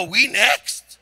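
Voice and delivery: lightly put-on Korean accent; imitated Korean accent. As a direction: echo it in Korean-accented broken English. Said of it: "I started talking Korean".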